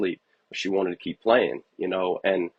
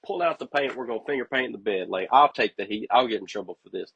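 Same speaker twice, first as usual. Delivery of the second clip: higher, giddy rush of giving in, words tumbling out fast; a parent caving happily, quick and excited; eager giving in; 5 semitones higher, faster than usual. Retold or imitated. Dad to his daughter at bedtime, giving in eagerly.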